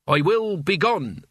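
hero talk. Acted. Mort grandly takes his leave of Kay Lee, hero style. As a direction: play the departing hero, a bit overdone. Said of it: "It's hero talk".

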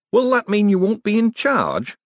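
high, loud worried query; jittery little man seeking an answer; anxious question. A narrator's reading. Hubert anxiously asks Moist.

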